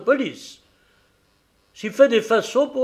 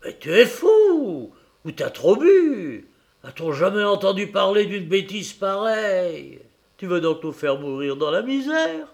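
much higher and louder, furious tirade; angry outburst; 8 semitones higher, 6 dB louder than usual. A narrator's reading. Wife exploding at her husband over the foundling, furious tirade. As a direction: explode at him in disbelief. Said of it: "Alors la mère Louveau éclata".

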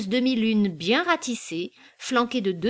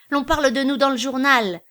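loud, higher-pitched delighted exclamation; raised, excited voice; César exclaiming; 5 semitones higher, 6 dB louder than usual. A narrator's reading. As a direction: cry it out, thrilled to be in the paper. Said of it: "s'écria César".

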